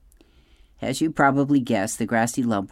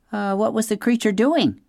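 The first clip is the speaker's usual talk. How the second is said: weasel voice; 10 semitones higher than usual. Acted. Weasel asks, voiced character.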